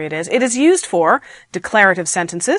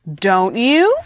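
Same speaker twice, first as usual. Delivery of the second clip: DON'T YOU climbing at the end; questioning rise. Shown as a demonstration. Teacher isolating the question half, rising on DON'T YOU. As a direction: swing YOU upward as a question.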